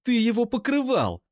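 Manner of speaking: high, loud, near-screaming rage; screaming accusation at the brother's defender; furious scream. Acted. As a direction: hurls every word at him. Eira screams.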